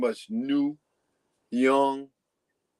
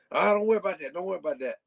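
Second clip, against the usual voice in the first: imitating Cool Breeze; 4 semitones higher, much faster than usual. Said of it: "That's how he talked".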